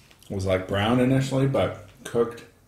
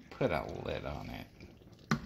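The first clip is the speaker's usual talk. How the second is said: low, slow, drawn-out mock growl; deep slow voice; 8 semitones lower, 13 dB quieter, slower than usual. Playful repeat of cooking phrase.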